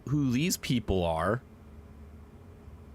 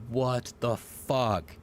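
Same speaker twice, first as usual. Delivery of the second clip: slow stunned wtf; much slower than usual. Retold or imitated. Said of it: "you're going to be saying".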